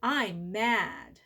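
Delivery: steady I'm mad on the in-breath; calm breath phrase. Shown as a demonstration. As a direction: model it for the kids. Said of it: "let's put it together".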